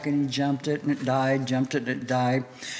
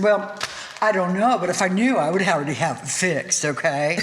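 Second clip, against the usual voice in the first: attitude; 3 semitones higher, 3 dB louder than usual. Retold or imitated. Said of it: "I had an attitude".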